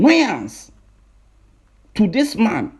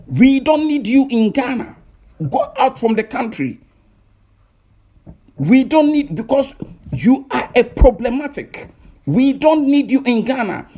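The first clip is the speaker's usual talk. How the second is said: raised, insistent telling-off; annoyed rant; 3 semitones higher than usual. Real, not acted. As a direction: demand he leave, fed up. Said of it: "we are speaking with annoyance".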